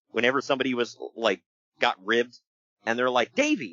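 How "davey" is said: high-pitched call to Davey; mock summons. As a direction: call his name accusingly, pitched way up. Others call the wrestler in anecdote.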